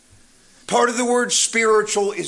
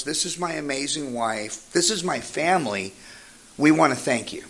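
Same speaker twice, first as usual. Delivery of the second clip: sincere thanks; 5 semitones lower, 4 dB quieter than usual. Retold or imitated. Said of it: "he looks me in the eye and he says".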